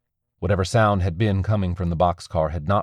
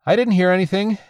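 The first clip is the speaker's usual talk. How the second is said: lying; 13 semitones higher, 5 dB louder than usual. A narrator's reading. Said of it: "Becca lied".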